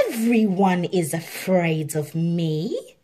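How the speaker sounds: slow, smug tiger voice; a tiger gloating over his fame; understated smug drawl. Acted. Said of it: "Shere Khan said smugly".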